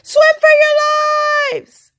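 slow, high, breathy panic; panicked stage whisper. Acted. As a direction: hiss the warning in terror. Fleeing a giant squid.

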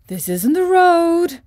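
breathy whispered stork. Acted. Stork warns the travellers of the wrong road, whispered. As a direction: whisper a warning.

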